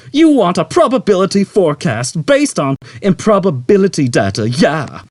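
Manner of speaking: chattering computer. A narrator's reading. Computer answering Zaphod, chattering. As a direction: chatter eagerly.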